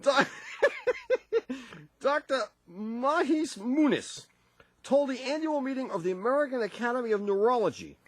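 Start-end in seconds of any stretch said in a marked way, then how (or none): 1.1-4.2 laughing. Real, not acted. Reading while laughing.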